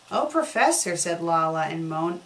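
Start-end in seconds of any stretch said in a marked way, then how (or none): 0.1-1.0 a hint of a moaning, lustful voice, higher; half-hearted moaning Professor; mock moaning. Laa-Laa moans to the professor, lightly hammed. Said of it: "in a moaning, lustful voice".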